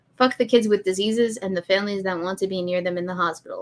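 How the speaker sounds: ordinary delivery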